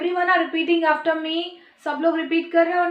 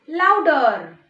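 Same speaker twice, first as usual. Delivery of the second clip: "louder" set apart and stressed; "louder" stretched out with a falling tune; emphatic urging; 5 dB louder than usual. Shown as a demonstration. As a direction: hit "louder" after a short pause. Teacher urges children to speak up.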